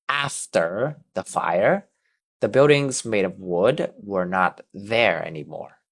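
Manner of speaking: "After" with the t softened toward a ch sound. Shown as a demonstration. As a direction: model reading with a ch-like t in "After". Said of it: "more like a ch sound".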